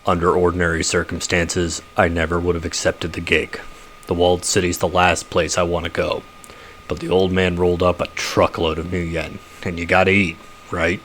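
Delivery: lightly voiced husky troll, a bit low and soft; a hint of a big, husky troll sizing up the runners. Troll explaining the gig to the runners, lightly husky. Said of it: "Husky troll".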